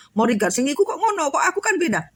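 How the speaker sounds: lightly acted jealous whine; mock envious complaint. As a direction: imitate someone comparing themselves and protesting. Mimics an envious comparing student.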